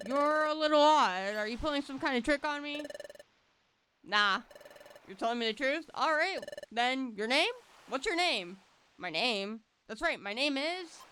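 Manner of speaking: lightly voiced, upbeat partner Pokemon; a cheerful kid introducing himself; friendly Riley. Riley questioning the hero.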